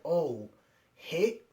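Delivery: mildly acted shock, questioning; retold disbelief, a touch stunned. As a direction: imitate a taken-aback reaction.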